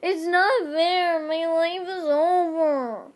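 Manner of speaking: loud, high, drawn-out wail; hammed-up teenage bawling. A narrator's reading. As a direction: wail it slowly, melodramatically. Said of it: "turned into me bawling".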